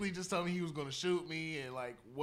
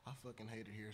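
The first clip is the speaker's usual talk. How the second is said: whispered, much softer; whispered complaint; 6 semitones lower, 17 dB quieter than usual. Retold or imitated. Manager confessing to him at work, whispered. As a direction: hiss it under her breath. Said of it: "She was like".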